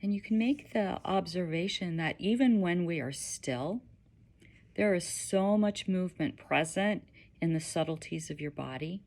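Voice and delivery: gentle guiding voice with long pauses; unhurried, slightly hushed meditation guide; guided meditation. Acted.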